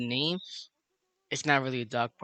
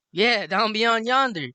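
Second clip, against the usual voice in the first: humouring echo; 7 semitones higher, 4 dB louder, slower than usual. Retold or imitated. Group echoing her odd phrase back.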